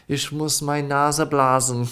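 imitating a blocked-nose German speaker, slow; nasal-blocked German. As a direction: say "Ich muss meine Nase blasen" slowly, as if the nose is blocked. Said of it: "he always used to go".

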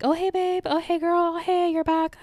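high, gushing greeting; overfriendly barista. Retold or imitated. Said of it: "another girl there that's like".

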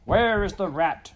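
high, loud kingly shout; loud, high-pitched royal demand. A narrator's reading. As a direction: shout it like a king demanding answers. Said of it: "shouted the king".

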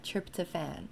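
British and South African "tryptophan", last syllable as "fan"; British pronunciation. Shown as a demonstration. Vlogger showing viewers the word she looked up, British pronunciation. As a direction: say "tryptophan" with a full "fan" at the end. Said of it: "the British version ... South African version".

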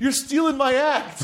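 high, drawn-out accusation; hammed-up outrage, stretched slow; mock indignation. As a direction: wail it as the wronged comic. Voices outraged friend in bit.

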